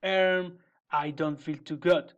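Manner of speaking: sighing. Acted. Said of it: "sighed Big Frog".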